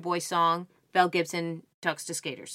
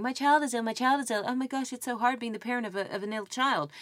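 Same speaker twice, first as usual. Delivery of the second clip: mock attention-seeking parent; 5 semitones higher than usual. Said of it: "so you're going".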